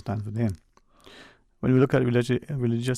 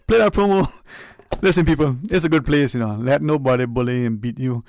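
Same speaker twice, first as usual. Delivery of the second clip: excited; 3 semitones higher, 7 dB louder than usual. Real, not acted. Hyped address to listeners.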